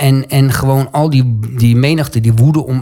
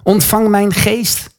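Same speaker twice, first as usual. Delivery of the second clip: slow, higher-pitched plea to the Lord; calling on Jesus; 5 semitones higher, much slower than usual. Retold or imitated. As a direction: re-enact a dying prayer, drawn out and raised in pitch. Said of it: "roept hij Jezus aan". (langzaam, hoger Jezus aanroepend)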